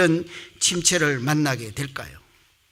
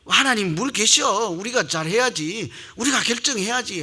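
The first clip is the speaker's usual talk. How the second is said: lightly acted bickering, pitched up; mild acted quarrel; 4 semitones higher than usual. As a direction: scoff as if arguing with family. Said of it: "막 싸우지 않으세요?". (다투는 말투를 살짝 흉내)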